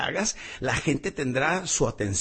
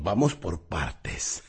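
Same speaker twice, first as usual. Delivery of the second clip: slow; 8 semitones lower, 3 dB quieter, much slower than usual. Acted. Joke slowed for effect.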